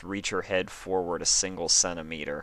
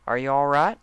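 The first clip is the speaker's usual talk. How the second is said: higher, louder worried check; worried call; 8 semitones higher, 6 dB louder than usual. Acted. Applejack checks on her stunned friend, worried and loud.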